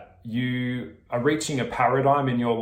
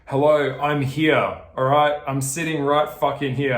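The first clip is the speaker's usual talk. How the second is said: calling out; 3 semitones higher, 5 dB louder than usual. Real, not acted. Calling out to lonely viewers.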